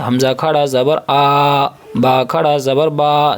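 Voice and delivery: slow recitation, stretching آ and با long; drawn-out long vowels. Shown as a demonstration. Teacher reciting to pupils, slowly stretching آ and با. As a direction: draw out the vowel in آ and با like alif madda. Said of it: "وہاں پہ کھینچ رہے تھے".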